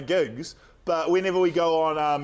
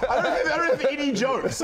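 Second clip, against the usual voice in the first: laughing, higher and cracking up; 6 semitones higher than usual. Real, not acted. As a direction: giggle through the words. Laughing while failing at jokes.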